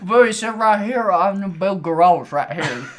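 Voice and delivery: put-on loud, high South African accent. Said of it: "Is that your South African accent?".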